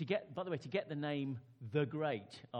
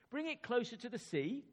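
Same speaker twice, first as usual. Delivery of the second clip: high, louder call across the sand; 10 semitones higher, 5 dB louder than usual. Acted. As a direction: call the order to the servants. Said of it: "Canute called".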